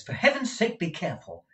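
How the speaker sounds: high, urgent, stumbling plea; distraught young man. Acted. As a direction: beg for the truth, words tripping over each other. Nicholas distraught.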